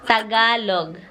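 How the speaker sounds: "Tagalog" slowly, ending on a clear g; stretched "Tagalog" with the final g sounded; pronunciation demo. Shown as a demonstration. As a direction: model "Tagalog" slowly for a learner. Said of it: "G in the end".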